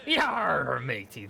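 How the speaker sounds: gruff pirate greeting, Yar up loud. Pretend. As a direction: growl it like a pirate. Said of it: "I'm totally doing a pirate voice".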